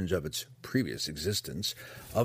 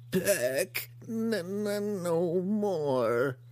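high, strained monster stammer; grotesque monster voice; 10 semitones higher, much slower than usual. Acted. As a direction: choke the words out like a beast. Hookar's broken first words.

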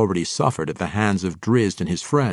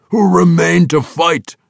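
much higher, louder growled challenge; 10 semitones higher, 11 dB louder than usual. A narrator's reading. Orc warlord to drow messenger, growling. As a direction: growl the accusation. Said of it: "growled Hartusk".

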